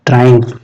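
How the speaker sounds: ट्रायम्फ as TRAI-umf; careful pronunciation demo. Shown as a demonstration. Teacher asking students to mind pronunciation, ट्रायम्फ as TRAI-umf. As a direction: say ट्रायम्फ with stress on TRAI and a final f. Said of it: "इसको pronunciation पे ध्यान देना".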